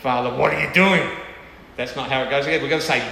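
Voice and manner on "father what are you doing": louder complaint addressed to Father; a hint of an angry child; mock indignant demand. Shown as a demonstration. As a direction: accuse with a touch of sulk. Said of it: "and say".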